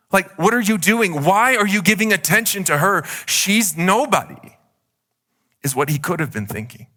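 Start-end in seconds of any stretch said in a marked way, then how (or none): 0.1-4.6 a bit higher, exasperated questioning; frustrated father. Acted. Father to Jesus, impatient and hurt. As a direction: press him, why the delay. Imagined Jairus's frustrated thoughts.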